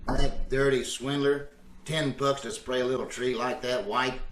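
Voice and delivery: low, sullen grumble trailing off; grumbling. Acted. Fuming alone about the dirty swindler, grumbling. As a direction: grumble insults to yourself. Grumbling to himself after quarrel.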